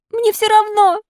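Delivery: very high, insistent puppet cry. Acted. Puppet warned fever will kill him, defiantly crying out. Puppet defies warning of death.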